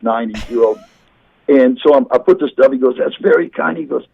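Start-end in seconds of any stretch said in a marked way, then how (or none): 3.0-3.8 put-on elderly man. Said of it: "those guys with scoliosis".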